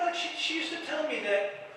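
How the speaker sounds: normal talking voice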